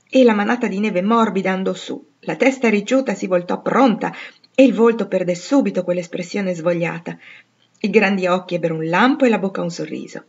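usual speaking voice

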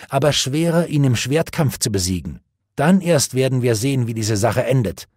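lightly voiced proud young knight. Gawain voiced in story.

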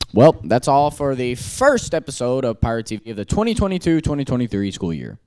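stadium announcer. Acted. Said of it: "Why do you sound like a stadium announcer?".

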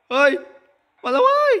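very high, loud shriek; panicked shriek. Real, not acted. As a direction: shriek as the granny comes. Granny arrives. (กรีดร้องตกใจเสียงสูงมาก)

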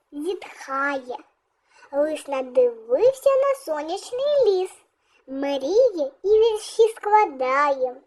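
put-on measured children's verse recital with pauses between phrases; expressive classroom poem reading. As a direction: read the verse aloud to young pupils, line by line. Reads a children's poem aloud.

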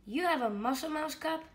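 put-on thrilled little girl asking; Lily surprised. Lily voiced in story.

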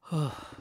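weary sigh. Acted. Sigh at the dreary streets.

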